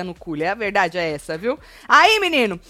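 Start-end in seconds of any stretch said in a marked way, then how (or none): 1.9-2.6 excited exclamation. Real, not acted. Excited retelling.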